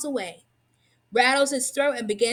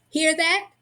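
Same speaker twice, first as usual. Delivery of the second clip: excited; 5 semitones higher, 4 dB louder than usual. A narrator's reading. Waking up excited at the rain cry.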